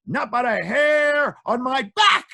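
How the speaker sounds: high, slow little pig squeak. Acted. Pig answering the wolf from inside.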